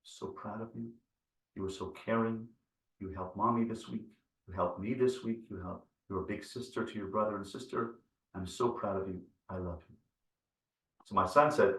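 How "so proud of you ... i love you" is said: very soft, close whisper in her ear. Retold or imitated. Father whispering praise to his daughter, soft whisper. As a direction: lean in and whisper it tenderly. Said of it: "gave her a whisper".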